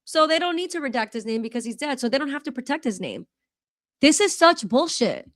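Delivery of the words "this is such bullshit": worked up. Real, not acted. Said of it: "Sorry for being worked up".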